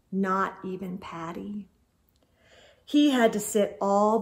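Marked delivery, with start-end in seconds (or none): 0.1-1.7 unvoiced, hushed aside; storyteller whispering a sad detail. A narrator's reading. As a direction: whisper it sadly.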